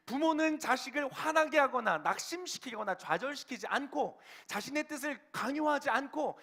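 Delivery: high-pitched, driving sermon delivery; impassioned preaching. Real, not acted. Pastor declaring how the world was made to be, impassioned preaching. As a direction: preach it with force, voice pitched well up.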